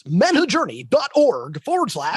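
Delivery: smooth announcer read; radio voice. Acted. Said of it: "Don't use your radio voice".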